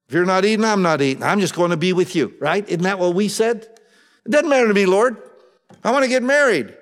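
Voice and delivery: high, loud eager devotion; eager young follower. Acted. Young man telling the Lord nothing matters, high and eager. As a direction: throw everything in, high and keen. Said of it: "that guy said".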